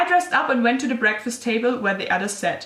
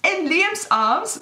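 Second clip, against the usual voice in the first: slow, much higher, disbelieving "In Liam's arms?"; incredulous repeat; 8 semitones higher, much slower than usual. Real, not acted. Mocking her own story's plot twist, high and slow. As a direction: stretch out "In Liam's arms?" in mock outrage.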